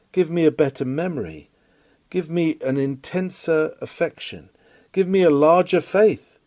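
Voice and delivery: a preacher's fervent spoken prayer. Pretend. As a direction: pray it aloud for the congregation. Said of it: "Let us pray it tonight".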